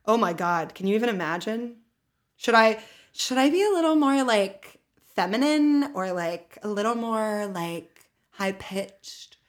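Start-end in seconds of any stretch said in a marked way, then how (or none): 2.4-9.4 mock feminine voice. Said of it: "That's your impression of me".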